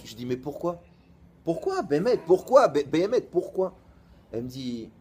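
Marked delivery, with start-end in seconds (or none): 0.2-3.8 insistent why. Retold or imitated. Pressing her for a reason.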